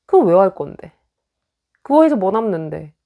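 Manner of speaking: cutting nag. Retold or imitated. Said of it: "아픈 점을 찌르는".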